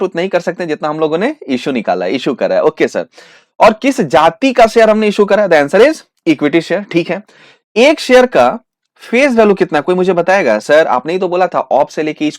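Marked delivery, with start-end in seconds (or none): 5.5-6.9 very slow, drawn-out answer; slow answer reveal. Acted. Teacher unveils the answer to the class, slowly and drawn out.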